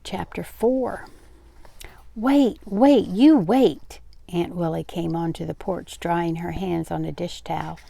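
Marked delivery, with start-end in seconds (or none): 2.1-4.0 high, loud, insistent halt; urgent calling out. A narrator's reading. Aunt on the porch stopping her niece, urgent calling out. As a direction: call out to stop them in their tracks. Aunt stops the young people leaving.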